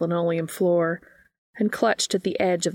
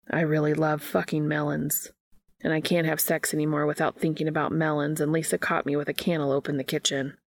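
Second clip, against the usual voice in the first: lower, rushing the end out in one go; lightly voiced Dean blurting; 3 semitones lower than usual. Dean finally tells the group his secret, a hurried blurt. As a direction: get it all out before you lose nerve.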